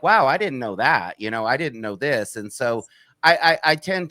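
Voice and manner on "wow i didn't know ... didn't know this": imitated surprise. People hearing facts the media left out, mildly surprised. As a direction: quote someone's wowed discovery, easing off after.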